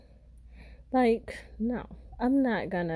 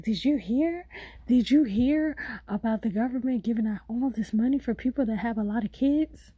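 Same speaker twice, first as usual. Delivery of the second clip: mock scammer voice; 3 semitones higher than usual. Imitating dude scammer.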